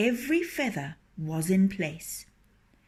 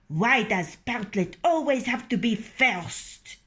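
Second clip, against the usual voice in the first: complaining hens; 4 semitones higher, 4 dB louder than usual. Acted. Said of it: "the other hens complained".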